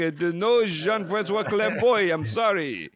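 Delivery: hotel receptionist politely apologizing to a caller, lightly imitated; imitating receptionist. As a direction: play the apologetic front desk clerk, half-hearted. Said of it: "And she goes".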